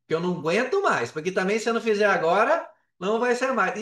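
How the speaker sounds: pushing himself with mock urgency; urgent retold plea. Retelling to his wife at breakfast, an urgent half-playful plea.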